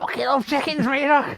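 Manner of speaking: high, strained comic yell; mock shout. Clowning with buckets of chicken, mock shout to Rita.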